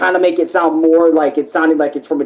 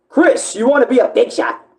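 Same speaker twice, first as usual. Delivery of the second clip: pitched-up character voice from the throat, unprocessed; 8 semitones higher than usual. Explaining doing a character authentically with just one's own voice: Spamton voice. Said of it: "I like to do it authentic, like Chris, ... Like just using my voice".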